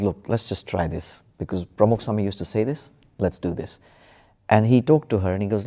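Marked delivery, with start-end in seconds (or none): 0.0-3.8 gentle soothing dad. Retold or imitated. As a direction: ease her down gently, like a father at the bedside. Dad soothing crying daughter at night.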